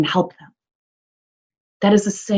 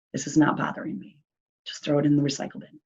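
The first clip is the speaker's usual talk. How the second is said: calm response; 2 semitones lower, 9 dB quieter, faster than usual. Retold or imitated. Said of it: "that junk mail response".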